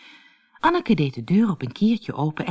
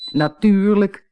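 higher, emphatic exclamation; glad call; 4 semitones higher, 4 dB louder, slower than usual. A narrator's reading. Willemien lets Anneke join the flight, emphatic call. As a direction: call out a ready yes. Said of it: "riep Willemien".

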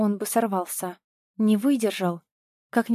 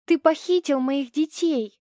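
high, hard accusation, stress on Ты; furious mother accusing; angry accusation; 5 semitones higher than usual. Acted. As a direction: hurl the blame at him.

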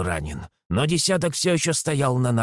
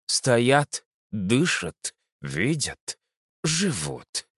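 prophetic trance voice; much slower than usual. Acted. Blind oracle senses their presence.

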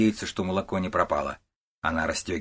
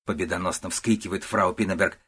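plain reading voice

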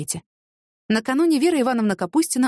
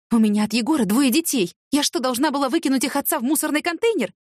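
indignant; 4 semitones higher than usual. Acted. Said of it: "возмутилась Вера Ивановна".

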